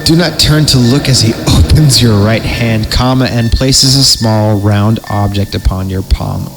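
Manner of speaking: slow, ominous storyteller read; creepy story narration. Acted. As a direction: read it like a campfire horror tale.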